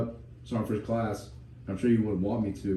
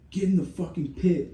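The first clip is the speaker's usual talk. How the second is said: barked order; 8 semitones higher, 3 dB louder than usual. Retold or imitated. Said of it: "he's like".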